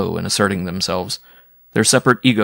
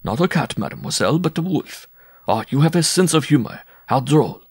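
conciliatory; 7 semitones higher than usual. A narrator's reading. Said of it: "in a conciliatory tone".

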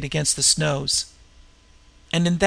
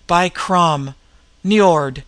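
gasped; 5 dB louder, much slower than usual. Acted. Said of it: "gasped the Cimmerian".

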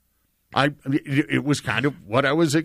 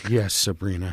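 mock voice of a singer; 8 semitones lower, 3 dB quieter than usual. Voicing a singer answering Sabrina.

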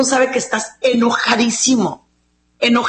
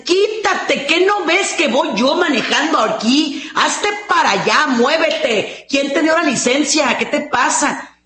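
higher, sharp mock road-rage yelling; 4 semitones higher than usual. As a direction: yell at another driver, hammed up. Acted road rage shouting. (conductor enojado gritando, exagerado)

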